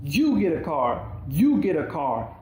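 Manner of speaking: loud, thrilled giveaway cry; excited announcement. Retold or imitated. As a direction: hand out cars with glee. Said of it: "Oprah utters the most prolific".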